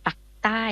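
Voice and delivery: ออกเสียง "ปักใต้" สั้นแบบคนใต้ แทน ภาคใต้; southern Thai pronunciation. Shown as a demonstration. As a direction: say "ปักใต้" with the short southern vowel. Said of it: "เพราะจะไม่อ่านว่าภาคใต้". (สำเนียงใต้ ออกเสียงว่า "ปักใต้")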